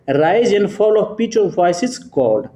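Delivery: reads the question out very slowly, word by word; slow dictation. Shown as a demonstration. Teacher slowly reads the quiz question to students.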